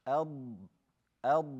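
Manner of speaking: ad with a long, heavy d; dragged dad. Shown as a demonstration. Teacher demonstrates the difficult dad, dragged ad. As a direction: hold the d of ad, letting it drag. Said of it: "how to say the dad properly".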